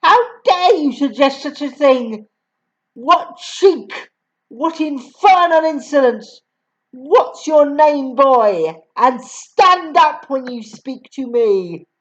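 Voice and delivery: a mildly angry headmistress scolding; shouted. Acted. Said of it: "shouted the Trunchbull".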